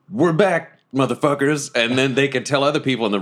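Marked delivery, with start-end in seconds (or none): 0.1-1.7 pirate taunt. Pretend. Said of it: "straight up pirate shit and be like".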